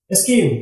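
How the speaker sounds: स्कीम said with a plain K, no H sound; silent H. Shown as a demonstration. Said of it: "यहां पर भी देखिए एच silent है". (स्कीम में एच silent)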